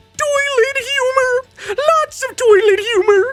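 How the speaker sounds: squeaky, very high cartoon voice, stretched out, humorous. Reviewing Shrek at one out of ten stars in a Gingy voice. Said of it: "I'm gonna try to do this in a in a Gingy voice, the gingerbread man".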